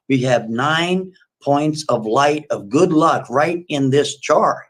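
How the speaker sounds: slow, solemn about magic; slow earnest plea. Retold or imitated. The bug lover telling Kathy the fireflies are magic, slow and solemn. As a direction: spell out the magic slowly. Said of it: "He goes".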